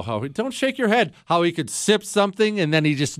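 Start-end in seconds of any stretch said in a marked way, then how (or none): none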